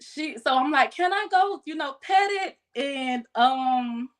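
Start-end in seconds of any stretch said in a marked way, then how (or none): 0.9-2.6 put-on higher, sweet small-child voice; little girl voice. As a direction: ask like an eager little kid. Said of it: "trying to do the little Baby J voice".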